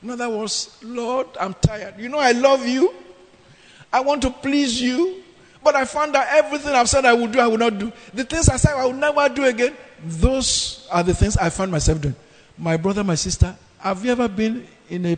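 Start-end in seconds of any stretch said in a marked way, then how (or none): 0.8-12.1 higher pleading to the Lord; Paul pouring out his frustration to God; exasperated confession. Retold or imitated. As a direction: act out a tired believer's complaint. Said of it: "He said this in exasperation".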